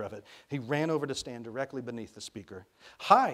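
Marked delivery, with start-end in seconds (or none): 3.0-3.3 put-on high, loud little-boy shout; shouted greeting. A narrator's reading. Boy calling up to the wall speaker, shouting. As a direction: call it up to the speaker. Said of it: "he shouted".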